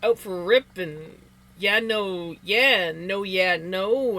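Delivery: half-hearted attempt at a Canadian accent. Shown as a demonstration. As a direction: lightly put on Canadian slang talk. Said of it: "I can't really do it".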